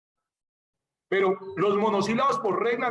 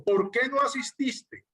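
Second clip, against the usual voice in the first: slow, higher question with "por qué" lifted; deliberate model question, higher on "por qué"; asking a question; 4 semitones higher than usual. Shown as a demonstration. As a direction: ask it slowly, "por qué" raised and "asististe" falling. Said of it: "Yo pregunto".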